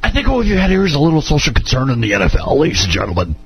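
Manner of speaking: fast blustery radio-host rant; Rush impression. Podcast host riffing as Rush Limbaugh on the NFL. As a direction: rattle it off like a talk radio host. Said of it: "I can't do a very good Rush".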